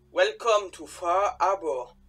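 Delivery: slow, lightly put-on English accent. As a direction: drawl the welcome like an Englishman, slowly. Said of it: "mon petit accent anglais". (accent anglais un peu forcé, lent)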